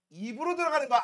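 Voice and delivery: says it again through a laugh; teacher laughing at the obvious answer; laughing repeat. Shown as a demonstration. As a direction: chuckle while repeating. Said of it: "repeated laughing".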